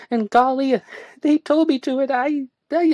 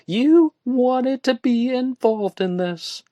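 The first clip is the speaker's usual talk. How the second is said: high, loud indignant retort; 7 dB louder than usual. A narrator's reading. Woman snapping at her friend, indignant. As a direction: fire it back at him. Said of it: "she remarked".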